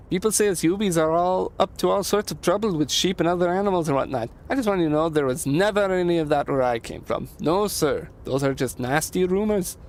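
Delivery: a hint of an earnest, folksy immigrant; lightly lilting, eager denial; lightly voiced Leo. Voices Leo denying rumors.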